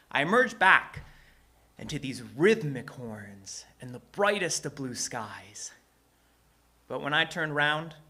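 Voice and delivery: theatrical rhyming storyteller; measured phrases with punched key words and dramatic pauses; story narration. A narrator's reading. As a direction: perform it like spoken-word storytelling.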